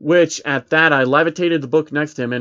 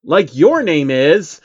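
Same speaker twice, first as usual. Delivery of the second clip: snippy comeback; 6 dB louder, slower than usual. Acted. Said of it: "I retaliated back".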